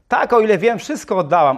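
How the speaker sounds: a hint of a sure, proud lady; the rich woman answers the missionary, lightly voiced; rich woman answering. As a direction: answer as if certain of yourself. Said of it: "odpowiedziała niewiasta".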